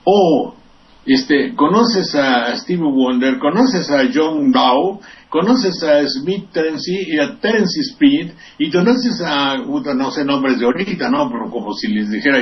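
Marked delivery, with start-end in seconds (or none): 0.0-9.6 slow, drawn-out quiz questions to locals; a hint of a smug host, slowed down; mocking youth host. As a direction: lightly play a show host rattling off names.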